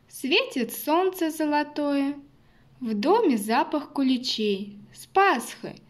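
cheerful Easter wishes in verse; festive greeting. Acted. (праздничное поздравление)

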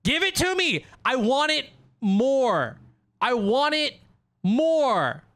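high, loud, greedy pleading; real hyped yelling at the draw; excited demanding. Real, not acted. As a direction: demand it from the deck.

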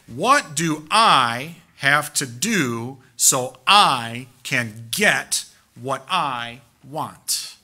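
drawn out at a crawl, each word stretched; mock the greedy question, very slowly; slow mocking paraphrase. Shown as a demonstration. Preacher paraphrasing the rich man's greedy question, dragged out slowly. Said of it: "Really, to paraphrase it".

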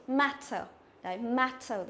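"matter" with a wide, open æ; wide-mouthed E bẹt. Shown as a demonstration. Teacher models the E bẹt sound for students, wide-open "matter". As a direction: say "matter" with the mouth spread wide on the first vowel. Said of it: "nó sẽ đọc như này".

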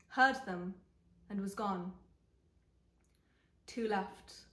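measured story reading in short phrases; literary narration. A narrator's reading. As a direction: read the novel aloud, pausing deliberately. Reads the novel aloud.

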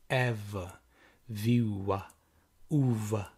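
Eva viu a uva with each first syllable stressed. Shown as a demonstration. Teacher to class, showing the stress pattern. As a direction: beat out the rhythm on the first syllables. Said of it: "have a look at the stress".

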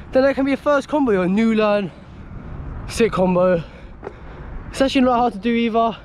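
breathless between tricks; out of breath. Real, not acted. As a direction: talk while catching your breath. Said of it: "I don't know why I'm so out of breath".

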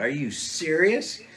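can't believe what you were just told; retold disbelief. Hunter questioning the guide's early start, retold disbelief.

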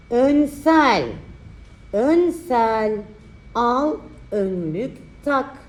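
slow, drawn-out dictation; dictating. Shown as a demonstration. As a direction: stretch each word for writing. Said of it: "dikte çalışması".

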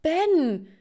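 loud, high, stretched-out shriek; startled cry. Acted. Girl finds ex-boyfriend in her dorm room, startled cry. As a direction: cry it out high, dragging the name. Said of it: "schrie ich auf".

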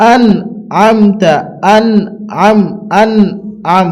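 "আন", pause, then "আমতা", each syllable set apart; correct pronunciation. Shown as a demonstration. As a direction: separate "আন" with n from "আম" with m. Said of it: "এটা হবে".

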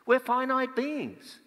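high, very slow, emphatic answer; confident reply. Shown as a demonstration. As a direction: lay it out slowly and plainly, as obvious. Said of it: "we say".

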